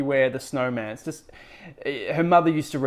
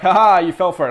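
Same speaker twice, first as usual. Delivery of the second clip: louder, higher villain's ha-ha; mock villain gloating; 4 semitones higher, 9 dB louder, faster than usual. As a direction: crow over the victim, hammed-up. Acts out monster gloating at trick.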